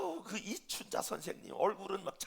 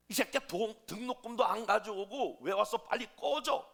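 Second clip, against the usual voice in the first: loud, higher teacher's yell, acted out; retold angry shout; 5 semitones higher, 9 dB louder than usual. Teacher throws out a pupil without tuition money, angry shout. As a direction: shout it as the teacher who sends a child away. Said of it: "이렇게 소리쳤는데".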